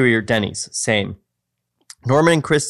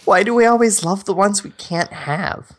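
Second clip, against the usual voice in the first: woman's voice; 7 semitones higher than usual. Acted. Reading Michelle's line.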